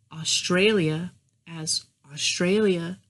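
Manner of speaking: "Australia" monotone and drawn out; slow, level "Australia"; flat masculine cadence. Shown as a demonstration. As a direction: say "Australia" flat, without inflection. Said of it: "they're often monotone and flat".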